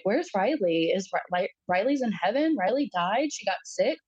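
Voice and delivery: lightly voiced toddler asking, pitch swinging up; toddler questions. Toddler asking where the baby went, lightly imitated questioning. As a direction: imitate a small child's questioning lilt. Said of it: "it's toddler age questions".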